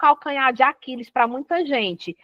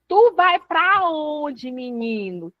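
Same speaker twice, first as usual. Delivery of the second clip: put-on calling out to a kid; 3 semitones higher, slower than usual. Shown as a demonstration. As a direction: call after him as he walks off. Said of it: "quando eu falo, Papinha".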